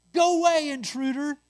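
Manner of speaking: loud, high "go away" flung at the stranger; demanding shout. Acted. Savages driving the intruder from the hut, loud and demanding. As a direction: bark him off the doorstep. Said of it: "they demanded".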